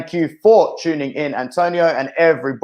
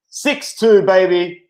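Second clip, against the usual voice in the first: excited; 4 semitones higher, 3 dB louder, much slower than usual. Real, not acted. Celebrating the scoreline.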